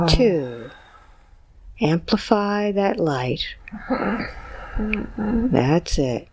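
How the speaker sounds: calm guided visualization; hypnotic guided induction. Acted. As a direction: guide them gently, count by count. Hypnotist counts client into light.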